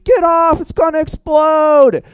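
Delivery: high panicked yell of warning; retold scream. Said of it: "he's now in the water screaming".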